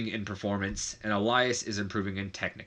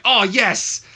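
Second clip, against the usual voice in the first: much higher, louder gleeful shout; Cole's excited yelp; 11 semitones higher, 10 dB louder than usual. Retold or imitated. Commentator cheering whenever Elias appears, high excited shout. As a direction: squeal with delight like a fanboy commentator. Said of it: "Michael Cole's like".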